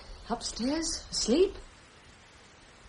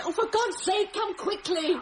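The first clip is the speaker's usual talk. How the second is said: desperate plea; 4 semitones higher than usual. Acted.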